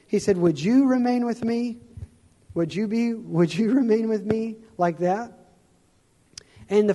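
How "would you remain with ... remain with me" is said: imitating a desperate, pleading Jesus, pitched higher; desperate plea. Retelling a dream, Jesus pleading with the speaker in a desperate voice. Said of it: "in a really desperate kind of voice".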